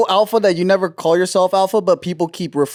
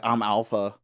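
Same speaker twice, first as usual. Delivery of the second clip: deep alpha voice; 8 semitones lower, 8 dB quieter than usual. Retold or imitated. Mocking alpha guys.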